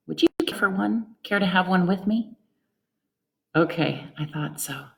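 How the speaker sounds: gentle, affectionate greeting to mom; warm caregiver greeting. Shown as a demonstration. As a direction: greet her tenderly, full of respect. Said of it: "So let me try this".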